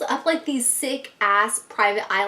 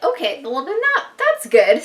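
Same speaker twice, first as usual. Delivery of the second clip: higher, louder, slower burst of relief; relieved exclaim; 6 semitones higher, 6 dB louder than usual. Retold or imitated. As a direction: blurt out your relief, drawn out. Relieved psychic will say good.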